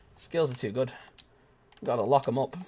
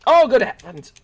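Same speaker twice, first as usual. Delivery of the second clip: posh gasp; 10 semitones higher, 10 dB louder than usual. Acted.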